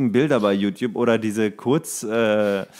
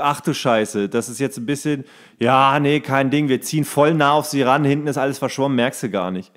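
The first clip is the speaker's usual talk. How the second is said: retold director. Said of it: "und meinte irgendwie".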